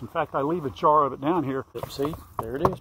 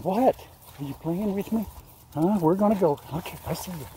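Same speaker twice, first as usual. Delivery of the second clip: raised, sing-song voice for the animal; pet talk; 4 semitones higher than usual. Real, not acted. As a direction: tease the critter in a higher playful voice. Teasing the animal.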